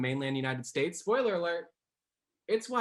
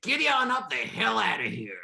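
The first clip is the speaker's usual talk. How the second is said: high, hammed-up Texan send-off; Texas accent; 6 semitones higher, 4 dB louder than usual. Shown as a demonstration. Dialect coach showing how to say goodbye, mock Texas accent. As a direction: shoo them off in mock Texan. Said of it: "instead of saying goodbye, you say".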